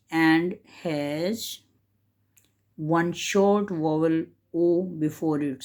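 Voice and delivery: slow, deliberate reading of a textbook rule. Shown as a demonstration. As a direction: read it out slowly for students to follow. Teacher reads example from book.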